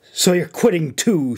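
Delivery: scowling anger. Acted. Officer angrily accusing a departing friend of quitting. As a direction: throw it at him like a betrayal. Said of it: "she scowled angrily".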